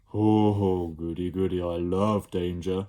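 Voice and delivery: loud relishing creature chuckle; gleeful Slime. Acted. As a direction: savour the danger. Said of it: "Slime replied".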